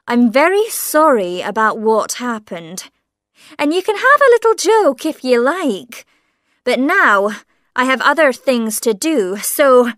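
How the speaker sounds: a policeman tired of the joke; lightly voiced sergeant waving off a confession; impatient sergeant. Sergeant dismisses him.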